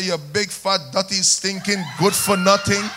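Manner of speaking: scolding in a Jamaican accent. Shown as a demonstration. Preacher jokingly tells a woman off, Jamaican accent. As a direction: lay on the Jamaican accent for the insult. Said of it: "I put on my Jamaican accent".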